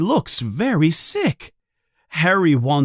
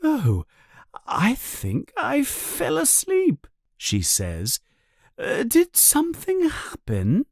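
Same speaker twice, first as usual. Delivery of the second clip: back-to-normal seer; 10 semitones higher than usual. A narrator's reading. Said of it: "she is back to normal".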